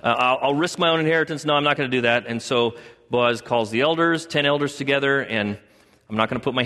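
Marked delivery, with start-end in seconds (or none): 0.0-2.3 flustered refusal. Retold or imitated. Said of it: "the guy goes".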